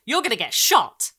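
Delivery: put-on loud singsong child taunt; gleeful child warning. A narrator's reading. Girl telling the dog its fate, loud. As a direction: tease the dog with bad news.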